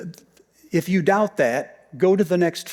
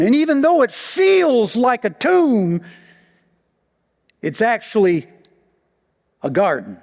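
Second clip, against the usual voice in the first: louder and higher, pounding the key words; fervent pulpit delivery; preaching at full force; 9 semitones higher, 7 dB louder than usual. Acted. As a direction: drive the point home like a preacher.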